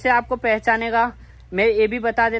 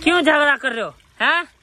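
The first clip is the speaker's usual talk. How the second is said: higher, louder scolding of fighting pets; 4 semitones higher, 4 dB louder than usual. Real, not acted. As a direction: tell the squabbling monkeys off. (झगड़ते बंदरों को ऊँची आवाज़ में डाँटना)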